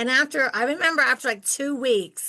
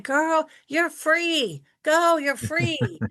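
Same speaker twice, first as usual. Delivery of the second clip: higher and slowly drawn out, thrilled; gleeful, carefree; 6 semitones higher, much slower than usual. Retold or imitated. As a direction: stretch out the joy of being set free. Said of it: "And I'm like".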